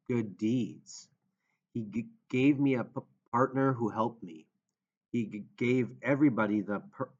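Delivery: halting stutter on first sounds; stammering. Acted. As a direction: stutter through the words. Chris speaks with stammer.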